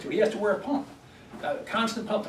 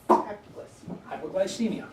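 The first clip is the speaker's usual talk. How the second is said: each syllable of Hypoglycemia drawn out slowly; slow, spelled out; much slower than usual. Shown as a demonstration. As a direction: say Hypoglycemia very slowly, as if writing it on the board. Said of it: "And what do they call that?".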